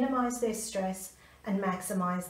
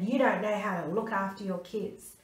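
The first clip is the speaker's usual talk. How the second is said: mock growl. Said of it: "growled at my son".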